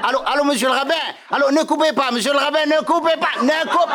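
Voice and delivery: rising urgent calls down the line; pleading phone call. Pretend. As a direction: keep him from hanging up. Calls the rabbi.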